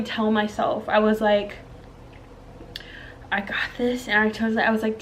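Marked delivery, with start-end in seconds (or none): 3.3-4.1 soft self-talk, retold; steady yourself quietly; trying to stay calm. Mother in labor reassuring herself through contractions, softly keeping calm. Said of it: "I'm trying to keep calm".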